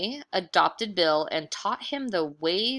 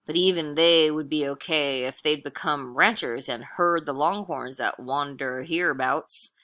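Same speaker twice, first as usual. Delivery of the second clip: drifter voice; 2 semitones lower, 4 dB louder than usual. Acted. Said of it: "said Chuck".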